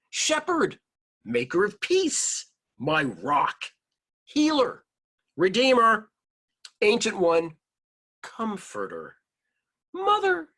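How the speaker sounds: high, loud calling out of names. A narrator's reading. Storyteller voicing people calling to God, loud and high. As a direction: call each name out high and loud, like a cry. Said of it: "they called out their names for God".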